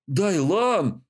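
a sudden sharp cry of the name; mild outraged exclamation; emotional outburst. A narrator's reading. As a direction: burst out with the name in shock and anger. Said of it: "От всплеска эмоций Рейн чуть не подпрыгнул".

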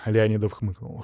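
ordinary delivery

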